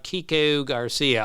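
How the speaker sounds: long Baltimore O in Kiko; Baltimore accent. Retold or imitated. Retelling a radio host's on-air gag, Baltimore accent. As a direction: lean on the O, Baltimore style. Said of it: "the long O is the one".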